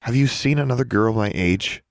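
high, sweet, careful politeness; overly polite. Acted. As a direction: ask as nicely as you can. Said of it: "much more polite tone".

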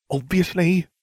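high-pitched, indignant huff; huffy. A narrator's reading. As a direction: huff it out, offended. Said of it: "she huffed".

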